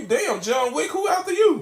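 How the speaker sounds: teasing shout, climbing high at the end; mock shout. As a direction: shout it at him like he's crazy. Mocking friend carrying three guns.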